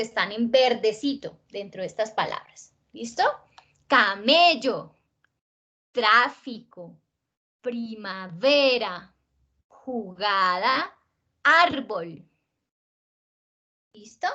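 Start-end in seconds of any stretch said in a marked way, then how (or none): 3.9-12.3 slow, stretched stresses on "Camello, tráfico, primavera, jugada, árbol"; stressed-syllable demonstration. Shown as a demonstration. Teacher reading words aloud to show stress, slowly emphasized. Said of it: "yo las voy a leer".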